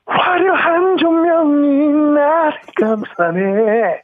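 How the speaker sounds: very high, slow strained singing voice; a singer's impression. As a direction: stretch each word high and slow. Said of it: "그 가수 갈게요".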